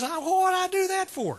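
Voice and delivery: high-pitched indignant scorpion question; scorpion's protest. Acted. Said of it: "the scorpion says".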